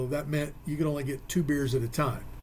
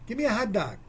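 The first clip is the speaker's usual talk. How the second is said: put-on New Jersey accent; 4 semitones higher, faster than usual. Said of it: "friend from New Jersey".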